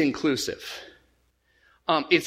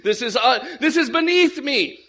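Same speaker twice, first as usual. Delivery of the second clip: uppity; 3 semitones higher than usual. Acted. Peter imagined with a pipe, mock uppity disdain. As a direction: look down your nose, stretching the words. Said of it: "kind of uppity, uppity".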